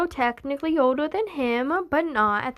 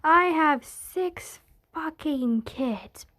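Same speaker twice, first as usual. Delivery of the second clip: exasperated parent; slower than usual. Acted. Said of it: "except having twenty".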